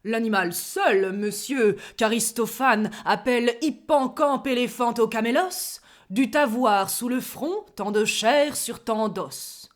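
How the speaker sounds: pedantic. Acted. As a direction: deliver it like a learned professor. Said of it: "Pédant". (pédant et doctoral)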